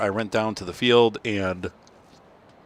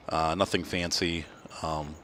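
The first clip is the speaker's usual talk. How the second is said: yawning; 5 semitones lower, 9 dB quieter, slower than usual. Real, not acted. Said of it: "oh my gosh, I can't stop yawning".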